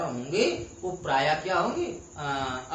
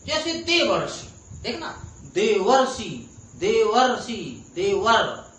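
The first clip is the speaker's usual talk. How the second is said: देवर्षि with the अर sound pushed higher and louder; stress on the ar sound; 4 semitones higher, 3 dB louder than usual. Shown as a demonstration. Teacher making students hear the अर sound. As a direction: lean hard on the अर in देवर्षि. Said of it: "अर की ध्वनि आ रही ना".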